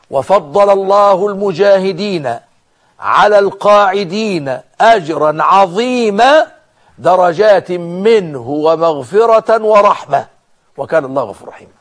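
slow, sustained declamatory recitation; Quran verse recitation. Real, not acted. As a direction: recite it slowly with drawn-out vowels, settling at the close. (تلاوة آية ببطء ومد)

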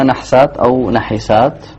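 slowly, first نحسات as "nah-saat", then as "na-hi-saat"; two readings contrasted. Shown as a demonstration. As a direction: vowelless ح in the first نحسات, short i after ح in the second. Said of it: "نستمع إليها".

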